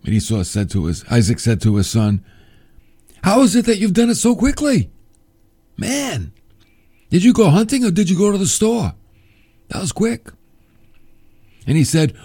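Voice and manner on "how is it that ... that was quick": high, incredulous mock questioning; amazed father. Father to son back too soon from the hunt, mock amazement. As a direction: act out astonishment, pitched well up.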